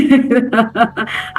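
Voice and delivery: a quick, amused laugh breaking off the story; short laugh. Real, not acted. Therapist laughing at the rude message, amused. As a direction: laugh it off lightly.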